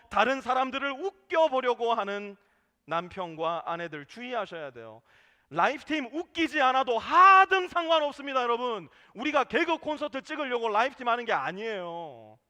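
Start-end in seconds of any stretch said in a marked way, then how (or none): 5.5-12.4 louder and higher, scolding the joking couples; sermon rebuke. Real, not acted. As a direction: raise the voice to correct the congregation. Preacher rebukes joking in groups.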